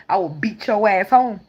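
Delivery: mock stern mother, slow and firm; slow firm threat like a fed-up mom; angry mother. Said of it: "She wasn't about to let him die".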